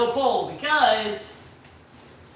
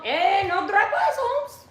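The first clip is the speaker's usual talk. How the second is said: put-on higher-pitched, playful Cholo accent; 5 semitones higher than usual. Joking with viewers about drive-bys, mock Cholo voice. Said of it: "bust out my Cholo voice".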